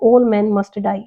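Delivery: slow answer read. Shown as a demonstration. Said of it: "modal auxiliary भरना".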